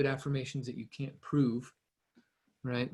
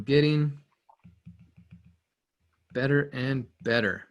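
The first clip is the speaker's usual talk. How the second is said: slow affirmation. Shown as a demonstration.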